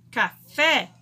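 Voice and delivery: "Café" all through the mouth, FÉ leaned on; oral sounds. Shown as a demonstration. Teacher giving a second oral example, mouth-only vowels. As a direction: say "Café" with no nasal resonance. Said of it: "apenas pela boca".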